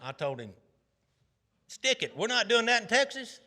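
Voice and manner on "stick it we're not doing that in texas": defiant shout. Retold or imitated. Defiant retort to Biden.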